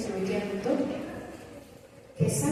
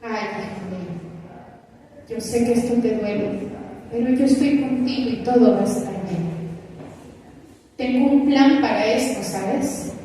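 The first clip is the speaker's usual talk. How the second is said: God comforting; faster than usual. Pretend. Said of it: "Dios está ahí a nuestro lado".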